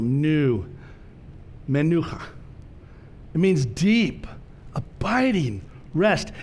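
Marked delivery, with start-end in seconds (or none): 0.0-2.2 menucha said me-NU-cha, with the weight on NU; stress the middle syllable. Shown as a demonstration. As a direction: set nu apart, then hit NU in menucha. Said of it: "The pronunciation's on the center syllable".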